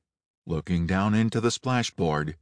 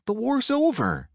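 guard's voice. A narrator's reading. Guard tells raiders war ended.

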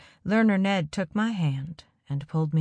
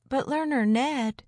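gasped; 8 semitones higher than usual. A narrator's reading. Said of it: "somebody gasped".

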